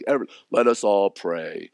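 a hint of a churchy prayer voice; mock pious prayer. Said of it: "Don't do it in a pious way".

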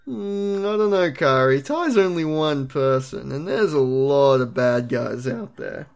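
slow, doubtful Matt, lightly voiced; a hint of a hesitant older brother; Matt impression. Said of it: "doing a Matt impression".

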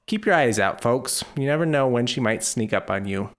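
measured storyteller reading aloud; scripted podcast intro read; story narration. Acted. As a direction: read a fond written anecdote to listeners. Reads a written piece.

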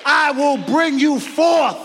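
a hint of God speaking, high and building; preacher voicing God's promise to the church. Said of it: "God's way of letting you know".

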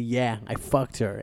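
blunt and harsh. Retold or imitated. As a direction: say it with a hard edge. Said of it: "But he didn't even say it like that".

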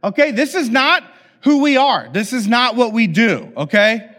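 mother scolding her sons; mildly frustrated scolding. Retold or imitated. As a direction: scold the kids firmly. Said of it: "boiling over with frustration".

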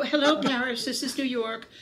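high, loud telephone-operator voice; New York operator. Retold or imitated. New York operator answering the Paris operator, high phone voice. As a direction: call brightly down a long-distance line. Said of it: "I go".

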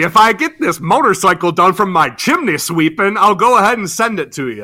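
a light hint of a Cockney chimney sweep, teasing; mock Cockney. Friend teasing the laughing host in mild mock Cockney. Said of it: "Oh, blimey".

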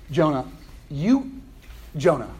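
patient coaxing with small pauses; gentle, loving. Acted. God to Jonah, gently persistent. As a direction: call the name kindly, as to a loved one. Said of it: "being super gentle, super loving".

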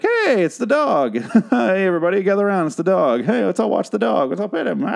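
high, cheery, overjoyed at the dog; mock excitement. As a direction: call everyone over like a gleeful child. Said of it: "You're like".

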